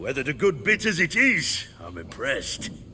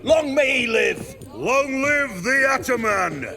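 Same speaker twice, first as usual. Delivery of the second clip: rousing toast; 6 semitones higher than usual. Acted. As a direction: raise a cup and cheer. Bandit toasting his leader.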